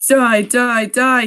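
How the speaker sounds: shouting. Acted. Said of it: "he shouted".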